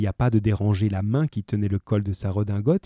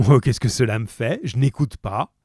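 scornful dismissal; 2 semitones higher than usual. Acted. Javert dismissive.

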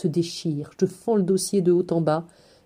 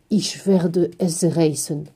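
very slow, drawn-out German words; slow German threat; 2 semitones lower, much slower than usual. A narrator's reading. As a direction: stretch each German word like a threat. (menace allemande très lente)

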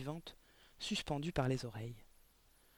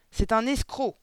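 higher, louder shout; 7 semitones higher, 9 dB louder, slower than usual. Acted. Headmistress denouncing the girl's father, shouted. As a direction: shout the accusation. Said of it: "cria mademoiselle Le Gourdin".

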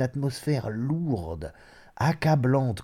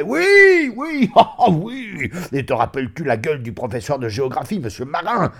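high, loud, laughing cries settling into eager storytelling; table-thumping hilarity; uproarious reminiscing; 6 semitones higher, 6 dB louder than usual. Acted. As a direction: whoop with laughter, then rattle off the memory. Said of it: "il riait, tapait du poing sur la table".

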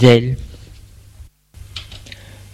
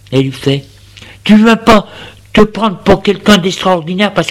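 une jeune femme qui le remet à sa place, un peu plus haut; raille-le sans pitié, d'un ton sec; femme moqueuse et sèche; 3 semitones higher than usual. Acted. La femme le rabaisse. (la femme rabaisse l'homme qui se vante de travailler, sèchement)

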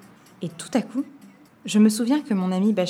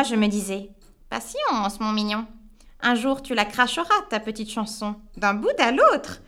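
sneering witch; 3 semitones higher than usual. Acted. The witch gloating to the boy she caught. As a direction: sneer and gloat over him. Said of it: "Elle ricane doucement".

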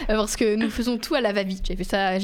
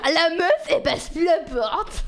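laughing quote; 5 semitones higher, slower than usual. Retold or imitated. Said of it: "très distingué ce vocabulaire".

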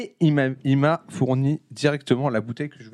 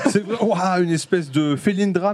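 laughing; slower than usual. Real, not acted. Joking while laughing.

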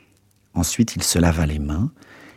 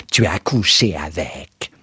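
understated yell; slower than usual. A narrator's reading. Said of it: "vociféra encore une fois".

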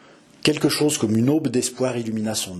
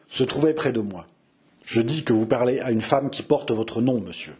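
rising dignity. Acted. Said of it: "L'accent de ces paroles avait ... en se haussant".

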